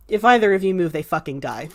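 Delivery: calm, factual warning; matter-of-fact. Acted. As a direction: state it as simple fact, no menace. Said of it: "Not said threateningly, just sort of matter-of-factly".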